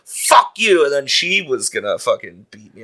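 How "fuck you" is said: high-pitched mock outburst; retold angry curse. Refused hitchhiker lashing out at the man, high mock anger. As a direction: imitate someone lashing out.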